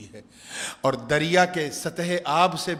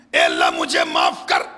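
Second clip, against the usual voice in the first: a louder cry for forgiveness; loud plea for mercy; 8 dB louder than usual. Acted. Young man begging God aloud to forgive him, loud plea. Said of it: "he started to cry".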